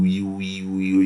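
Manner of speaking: playful nonsense syllables mocking an accent; mock African accent. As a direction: toss off "wee, wee" as a lighthearted imitation of an expected accent.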